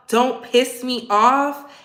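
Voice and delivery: slow, smiling warning; sweet-sounding threat, slowly; a slow smiling threat with a sting; said with a smile. Retold or imitated. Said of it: "I say it with a smile".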